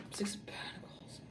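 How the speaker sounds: hushed whisper of the card's name. Real, not acted. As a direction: drop right down into a voiceless whisper. Same card repeated after "oh dear.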